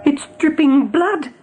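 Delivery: slow, hushed and spooked; a frightened rabbit seeing blood; awed dread. Acted. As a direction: stare at something horrible and name it slowly. Fiver sees blood in a vision.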